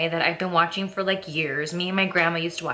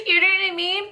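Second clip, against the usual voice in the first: higher and louder, still laughing; 10 semitones higher, 3 dB louder, faster than usual. Real, not acted. Vlogger asking viewers while still laughing. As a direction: ask it through leftover laughter.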